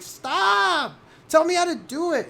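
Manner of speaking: put-on shrieking kid tantrum. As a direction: yell at the brother in a tantrum. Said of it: "It's like".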